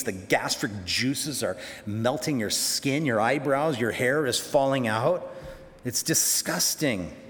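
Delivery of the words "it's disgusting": slow, stretched emphasis on "disgusting"; slowly spelled-out distaste; drawn-out disgust. Real, not acted. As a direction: linger on "disgusting" with revulsion. Repeats revulsion for effect.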